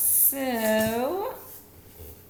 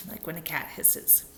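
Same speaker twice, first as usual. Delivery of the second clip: cat hiss; 3 semitones lower, 7 dB quieter than usual. Shown as a demonstration. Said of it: "'cause it sounds like".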